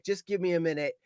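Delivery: winded, breathless plea; out of breath. Retold or imitated. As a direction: gasp it out after running. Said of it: "now I'm out of breath".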